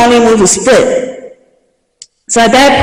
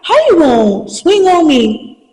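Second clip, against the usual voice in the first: outraged retort; 8 semitones higher than usual. Retold or imitated. Acted quarrel with the mother.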